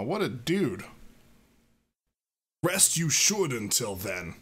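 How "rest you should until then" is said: slow Yoda-ish. Acted. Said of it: "Frickin' Yoda up in here".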